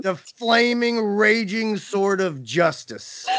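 high then slow, grand mock-heroic; mock epic. Host hams up her sword of justice. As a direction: build it up like a legend.

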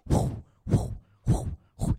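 unvoiced whoosh of a sling whirling; airy swish, swish of a sling; breathy whooshing sling. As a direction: blow out the sound of a sling spinning overhead. Imitating the sling swinging.

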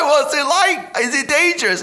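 very high squeaky voice, half laughing; high chipmunk voice; helium voice. Retold or imitated. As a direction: talk like you're full of helium. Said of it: "And I'm like".

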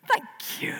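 breathy whispered thanks. Real, not acted. Author whispering thanks to the adult in the audience. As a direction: whisper it with a high little thank you.

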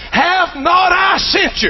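slow, booming challenge from God to the doubter. Acted. God presses Gideon to go in his might, booming slowly.

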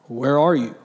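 low, booming voice of God. Acted. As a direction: call out deep like God from above. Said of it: "That's my God voice".

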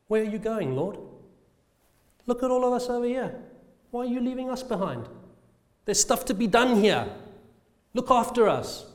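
high, quick sheep voice pleading with the shepherd; talking sheep. Pretend. A sheep calling after the leaving shepherd, high and pleading. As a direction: squeak it out as an anxious sheep left behind. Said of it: "and we could speak sheep".

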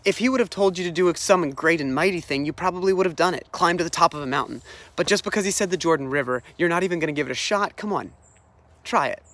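quick, mildly exasperated coaxing; retold nagging from frustrated attendants; getting on his case. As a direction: badger him lightly, like a buddy. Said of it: "they get on his case".

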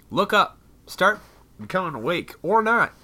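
high, loud ranting at the crowd; mock-furious yell, half playing; angry yelling. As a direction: bark it up at a crowd who won't listen. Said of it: "I don't even know why I'm mad".

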